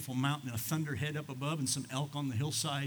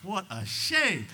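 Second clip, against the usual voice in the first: ironic; 5 semitones higher, 5 dB louder, much slower than usual. Acted. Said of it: "ironic remark".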